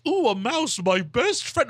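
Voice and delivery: mock sappy dog. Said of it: "A dog isn't gonna be like".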